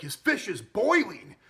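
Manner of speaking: high, loud, slow indignant complaint; pissed off. Retold or imitated. Captain angrily scolding the chef about the fish, loud and slow. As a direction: scold the chef slowly and loudly. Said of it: "all pissed off at the".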